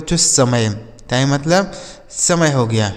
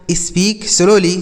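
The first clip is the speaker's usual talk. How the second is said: slow demo; 3 semitones higher, much slower than usual. Shown as a demonstration. Teacher repeating for children, very slow. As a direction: Speak slowly, each word drawn out very slowly.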